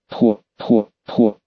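low, spoken "ho, ho, ho"; old man's laugh. A narrator's reading. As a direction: laugh it out as separate low syllables. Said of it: "Старик смеялся так". (низкий старческий смех, проговорённый по слогам)

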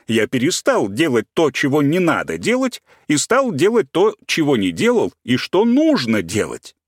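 preachy, stressing each word; Tolstoy impression. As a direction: preach like an old sage, stressing words. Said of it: "удачно скопирован Толстой".

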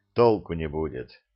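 plain reading voice

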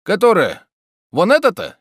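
high, loud puzzled boatman. A narrator's reading. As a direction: boatman asking back. (переспрашивающий лодочник)

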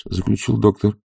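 ordinary delivery

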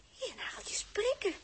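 slow hushed whisper to the pet. Acted. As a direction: breathe it softly, slowly. Intimate aside while dressing up.

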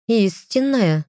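high, disbelieving repeat of the word; squinting, she doubts it; incredulous question. Acted. Lilien questions her husband's fated mate, incredulous. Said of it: "прищурилась Лильен".

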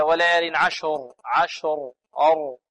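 slow وليال عشر with a clearly voiced, full r; voiced final ra. Shown as a demonstration. Teacher shows the correct way, voiced r ending عشر. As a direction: sound out the r of عشر with voice. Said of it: "فنقول هكذا".

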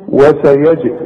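وسيجزي cut at the j with an echoing release; qalqalah on ج. Shown as a demonstration. Teacher isolating the jim, bounced وسيجزي. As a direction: pop the ج open in وسيجزي. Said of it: "بقلقلها".

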